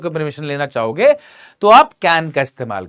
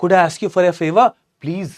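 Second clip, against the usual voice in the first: slow, lovingly polite request; very politely; much slower than usual. Acted. Asking a stranger on the train for his charger, slow and sweetly polite. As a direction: ask a stranger sweetly, taking your time. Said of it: "बड़े प्यार से ऐसे बोला, बहुत ही politely".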